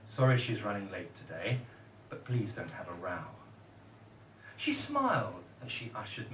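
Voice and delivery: measured comic verse with pauses; poem recital. Acted.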